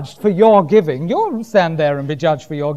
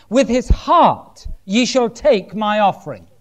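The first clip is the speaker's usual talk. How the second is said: measured, raised preacher's reading voice; scripture reading; 3 semitones higher than usual. Acted. Preacher reading Proverbs to the church, declaimed. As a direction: read the verse out to the congregation.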